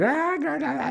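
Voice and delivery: high singsong la la la to drown out sound; loud la la la. Retold or imitated. Wife drowning out a sex scene, high singsong. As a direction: sing it high to block the noise. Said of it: "this loud noise to, like, try to block out sounds".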